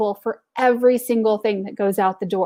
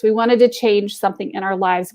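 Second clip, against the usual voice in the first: ordinary talk, nothing marked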